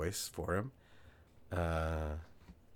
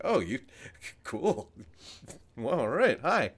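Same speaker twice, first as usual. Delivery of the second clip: flustered, raised voice with halting starts; didn't expect that; 6 semitones higher, 4 dB louder than usual. Retold or imitated. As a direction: act out stumbling into an awkward greeting. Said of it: "I just didn't expect that".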